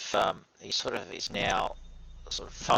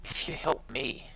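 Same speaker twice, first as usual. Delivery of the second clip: put-on New Zealand accent; 4 semitones higher, 5 dB quieter than usual. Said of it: "your New Zealand accent isn't that good".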